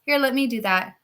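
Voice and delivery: lightly voiced obliging daughter; eager yes, Mom; sweet sister. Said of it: "the nice sister is like".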